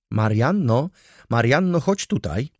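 high, loud summons; calling out. A narrator's reading. Baronowa summons her maid from her room, calling out. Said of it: "zawołała ze swego pokoju baronowa".

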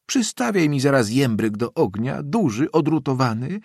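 put-on high-pitched, lively old lady; excited old woman. A narrator's reading. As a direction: bustle with orders and delighted questions. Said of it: "krzyknęła głośniej w kierunku sionki".

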